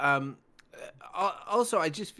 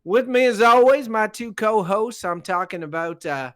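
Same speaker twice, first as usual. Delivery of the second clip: put-on Southern accent. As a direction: play a folksy Southern host with a light Southern accent. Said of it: "that's an adorable patois".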